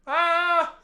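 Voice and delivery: high-pitched mock baby wail; imitated baby yell. Imitating a baby yelling in the theater, mock yell. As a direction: yell like a baby, without full volume. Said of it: "the baby would just yell".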